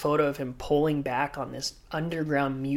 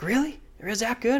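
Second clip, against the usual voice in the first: higher, teasing disbelief; mock surprise; 8 semitones higher than usual. Kelly ribbing him after his wipeout, mock surprised. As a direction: feign amazement to rib him.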